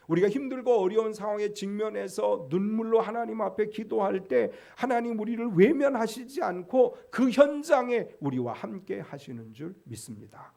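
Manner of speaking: usual speaking voice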